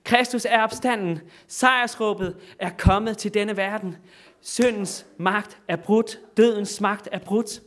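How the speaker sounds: preacher voicing the Easter night cry, triumphant; triumphant proclamation. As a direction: proclaim the victory over death. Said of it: "sådan bliver de ved hele natten".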